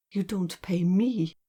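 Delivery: slow, measured stress on the short phrase "You don't pay me"; "You don't pay me" drawn out firmly; emphatic. A narrator's reading. Woman correcting the man about payment, emphatic. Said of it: "she said emphatically".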